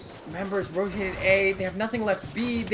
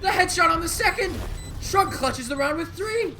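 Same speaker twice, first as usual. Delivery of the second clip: explosive hype, much higher and louder; esports caster; 13 semitones higher, 5 dB louder than usual. Real, not acted. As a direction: scream the clutch headshot. Caster screaming clutch headshot.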